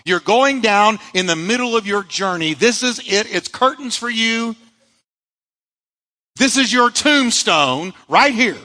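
a hint of an ominous taunting voice; voice of the storm. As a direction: taunt them as the storm would. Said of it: "Their storm was telling them".

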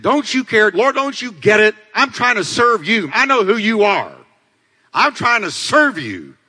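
high-pitched, indignant pleading; exasperated Martha protest. Acted. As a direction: protest as the overworked, unappreciated sister. Martha protesting angrily to the Lord.

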